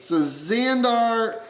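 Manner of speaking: carried away while signing; excited. Real, not acted. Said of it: "I got all excited".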